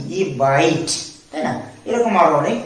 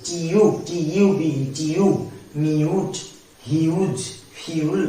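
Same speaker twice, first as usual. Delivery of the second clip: "টিউব" said slowly with a clear "iu"; slow demo; much slower than usual. Shown as a demonstration. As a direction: draw out the "ইউ" in "টিউব". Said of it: "ইউ এর sound ইউই আসছে". (ধীরে "টিউব" উচ্চারণ)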